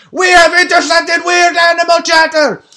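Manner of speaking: high-pitched, full-force sustained yell; screaming impression. Assistant baby screaming news over a beat, unregulated high shout. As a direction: scream it all on one high note. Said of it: "Magnus just screams over the beat".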